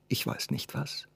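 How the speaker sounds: whispered. Acted. The girl confesses her fear to him, in a hushed whisper. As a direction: whisper it as if afraid to admit it. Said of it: "Und kaum hörbar".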